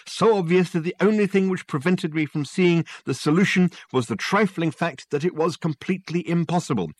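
triumphant show-off lecturing; excited Dirk. Acted.

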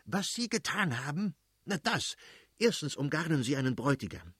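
high-pitched, indignant tirade; fly off the handle at the wife; irate, emphatic scolding; flaring-up anger. A narrator's reading. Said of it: "brauste der Fürst plötzlich auf und schrie".

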